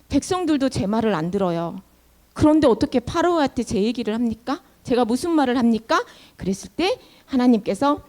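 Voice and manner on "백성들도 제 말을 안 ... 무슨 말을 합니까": lightly acted, subdued, downcast pleading; discouraged protest. Moses tells God nobody listens to him, mildly dejected.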